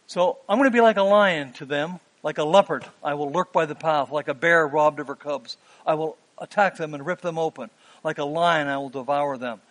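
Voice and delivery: God roaring a warning at his people; divine threat. Acted.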